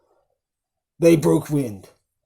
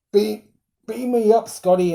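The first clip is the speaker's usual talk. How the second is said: quoting Mel as president; 6 semitones higher, 3 dB louder than usual. Retold or imitated. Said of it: "he's like".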